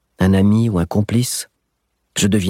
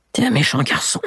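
put-on high, pinched voice of a spiteful old man; sulky old thief; 7 semitones higher than usual. Old thief scolding the boy, high and spiteful. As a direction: scold like a bitter old crook.

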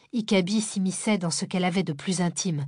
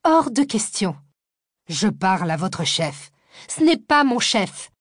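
shrill outburst; 5 dB louder than usual. Acted. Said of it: "La voix aiguë de Cécile".

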